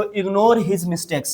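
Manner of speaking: each word drawn out slowly for learners; slow dictation pace; slow model phrase. Shown as a demonstration. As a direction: spell it out slowly for students to repeat. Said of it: "तो आप बोल सकते हो".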